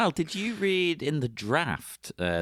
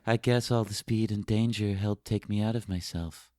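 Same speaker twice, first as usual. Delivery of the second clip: flat line reading; 3 semitones lower, 3 dB louder than usual. Retold or imitated. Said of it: "She says, like".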